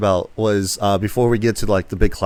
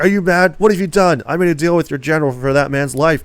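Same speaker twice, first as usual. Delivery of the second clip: mock outraged officer; 6 semitones higher than usual. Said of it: "He goes like".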